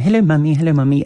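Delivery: high, loud British cartoon pig; squeaky posh little piglet; Peppa Pig voice. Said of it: "Peppa Pig speaks in this British accent".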